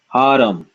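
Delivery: haram said ha-ra-m with an uh after the r; haram, full vowels. Shown as a demonstration. Teacher models haram to students, with the uh. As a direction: say haram in three beats. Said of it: "how would we pronounce this".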